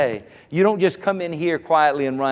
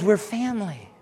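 quiet first statement; 4 semitones higher, 6 dB quieter than usual. Acted. Pastor to congregation, quietly stating it first. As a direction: drop it down before the call. Repeated church declaration.

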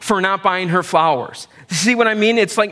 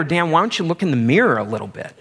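quick mock rebuke; faster than usual. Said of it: "Either that or".

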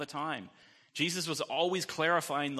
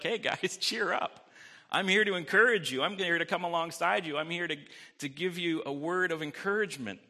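higher, louder, bright pep talk to scared friends; cheery Jesus; 4 semitones higher, 5 dB louder than usual. Acted. Jesus cheering up frightened disciples in the storm, upbeat and loud.

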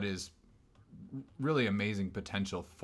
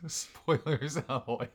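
drawn-out, laughing pirate call; slow laughing pirate echo; 6 semitones higher, slower than usual. Pretend. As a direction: stretch it out like a pirate hailing.

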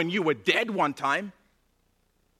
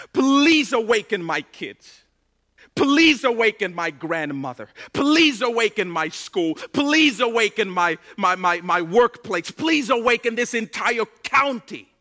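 begging prayer; 5 dB louder than usual. Pretend. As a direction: plead like someone praying on their knees. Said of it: "begging the waker".

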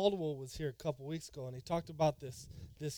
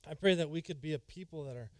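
prayer. Acted. Prayer continues.

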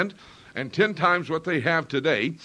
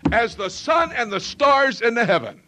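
booming scripture quote; 3 semitones higher, 4 dB louder than usual. Acted. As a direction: declaim it like a divine vow. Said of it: "he said".

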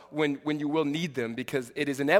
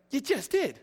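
laughing retort; 8 semitones higher than usual. Retold or imitated.

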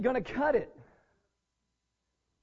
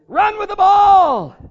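loud, slow, high call to get in the game; father yelling; 9 semitones higher, 15 dB louder, slower than usual. Retold or imitated. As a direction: yell it from the stands. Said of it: "Our father is yelling".

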